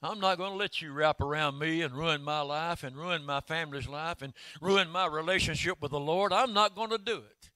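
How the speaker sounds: loud, resolute vow; defiant declaration. Pretend. Listener vowing to leave the bed of unforgiveness, defiant. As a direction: declare it like you mean it.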